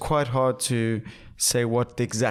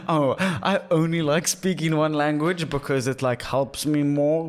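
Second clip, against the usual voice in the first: incredulous mock; 2 semitones higher, slower than usual. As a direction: scoff at the idea. Mocking imagined person.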